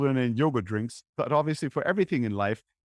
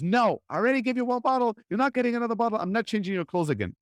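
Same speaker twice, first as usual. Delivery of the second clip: stern refusal; 8 semitones higher, faster than usual. Retold or imitated. Mom refusing another bottle.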